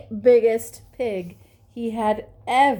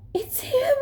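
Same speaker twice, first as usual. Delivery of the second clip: frightened whisper. A narrator's reading. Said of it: "Doctor Pig whispered".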